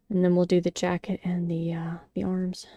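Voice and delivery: soft whispered aside while crafting; murmured to herself over the work. Real, not acted.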